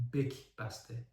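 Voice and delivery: "بک" said bak, with a b; misprinted word. Shown as a demonstration. Reviewer reads the typo aloud, misprinted word. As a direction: read "بک بسته" with b in place of y. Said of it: "که درستش یک بسته است".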